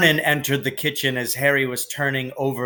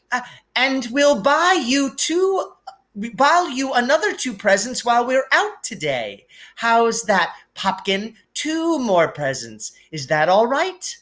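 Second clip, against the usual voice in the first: much higher, placating mother's voice; hasty Aunt Petunia; 10 semitones higher than usual. A narrator's reading. Mother quickly bribes her son with presents, high placating voice. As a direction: hurry to appease the child. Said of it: "she said quickly".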